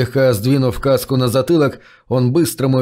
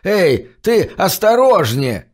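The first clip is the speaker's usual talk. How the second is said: slow, higher wheezing call; wheezy shout; 6 semitones higher, slower than usual. A narrator's reading. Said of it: "просипел он".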